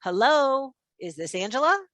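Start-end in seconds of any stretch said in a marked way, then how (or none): 0.0-0.7 mirrored hello. Shown as a demonstration. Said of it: "did you notice how I said hello".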